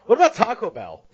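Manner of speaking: high, loud innocent wife voice; mock wife. Husband imitates his wife suggesting Taco Bell, high and loud. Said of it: "That's her suggesting to me Taco Bell".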